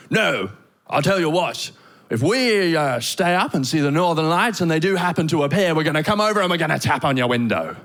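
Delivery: lightly voiced pushy Brit, insistent; a touch aggressive, as a self-assured British bloke; slightly aggressive British man. British man offering to wake the couple for the lights, slightly aggressive. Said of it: "slightly aggressive British man".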